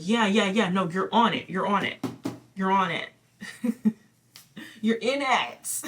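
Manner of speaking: rally her like an excited cheer squad; eager spirit team. Pretend. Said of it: "your spirit team is like".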